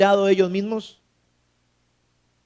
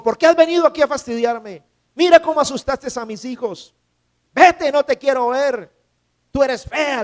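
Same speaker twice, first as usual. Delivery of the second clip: raised, higher voice driving her away; angry son; 5 semitones higher than usual. Retold or imitated. Son chasing his mother from his door, higher angry scolding. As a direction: scold her and send her off, pitched up. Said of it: "le dijo".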